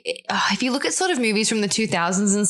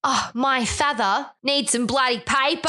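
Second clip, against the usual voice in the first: bad fake Aussie accent; 3 semitones higher than usual. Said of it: "people suck at doing her accent".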